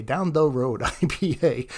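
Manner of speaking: slow, playful emphasis on "the Road"; drawn-out repeat. Shown as a demonstration. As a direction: stretch out "Down the Road" slowly. Beer name repeated slowly, playfully.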